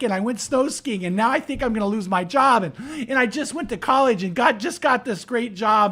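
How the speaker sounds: high-pitched mock-weepy confession; hammed-up tearful rambling, pitched high; retold tearful confession. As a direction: imitate a distraught woman pouring out her guilt. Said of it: "she's crying".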